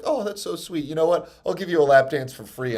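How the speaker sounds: lightly imitated sweet woman, starting high; mock-tender reply; touched stripper. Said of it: "she was like".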